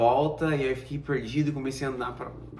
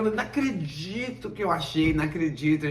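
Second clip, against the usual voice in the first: excited, higher, can't believe it; relieved disbelief; 5 semitones higher than usual. Retold or imitated. Lost student finds his homestay at last, excited relief. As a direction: gush with relief at finally finding home.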